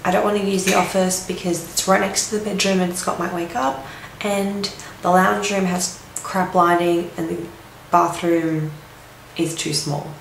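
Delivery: gravelly just-woke-up voice; rough morning croak; croaky voice. Real, not acted. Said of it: "sorry about my croaky voice".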